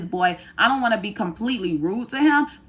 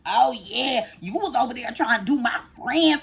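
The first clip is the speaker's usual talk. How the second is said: higher-pitched, mock confrontational call-out; mock rude; 4 semitones higher than usual. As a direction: imitate someone being pointedly rude. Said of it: "I'm not gonna be rude".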